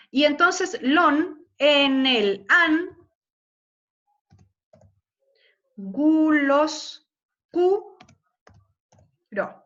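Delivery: slow, loud, syllable by syllable; scanning the verse. Shown as a demonstration. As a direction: beat out lon, an, cu as stressed syllables. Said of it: "periodo rítmico interno". (escandiendo el verso sílaba por sílaba)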